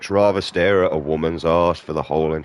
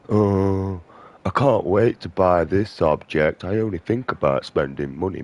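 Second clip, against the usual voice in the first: mock shallow shopper; 2 semitones higher than usual. Mocking mindless shoppers to viewers, a dopey put-on voice. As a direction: play a vapid consumer, dim and dreamy. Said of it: "what would you talk about?".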